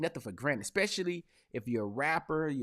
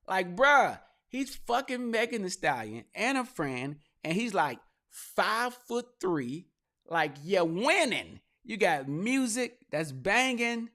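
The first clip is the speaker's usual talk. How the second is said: incredulous rant; 7 semitones higher, 3 dB louder, slower than usual. Real, not acted.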